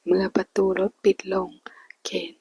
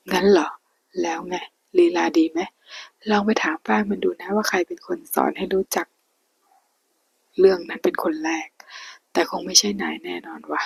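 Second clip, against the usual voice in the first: taunting. Acted. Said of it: "ด้วยน้ำเสียงยียวน".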